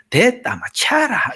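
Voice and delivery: blunt Gyeongsang seaside bark, lightly done; Gyeongsang coast dialect. Retold or imitated. Preacher imitating blunt Gyeongsang seaside speech in curt dialect. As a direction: clip it short like a Gyeongsang fisherman, high on 차라. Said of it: "바닷가 사람들 얘기하는 거 들어보면".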